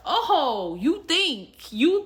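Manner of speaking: high, loud teasing singsong; mock her plans in a teasing lilt; mocking God. God mocking her house plans, high and teasing. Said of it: "God, I guess, had the".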